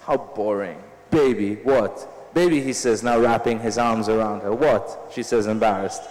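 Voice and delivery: an author reading her own novel aloud; measured literary reading voice; story reading. A narrator's reading. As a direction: read the passage like a reading to an audience. Author reads novel excerpt aloud.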